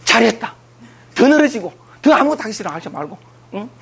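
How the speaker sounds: ordinary talk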